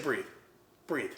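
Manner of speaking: short, evenly spaced calming words; calm reassurance. Retold or imitated. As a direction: imitate an unruffled friend. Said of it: "like, the calmest person ever".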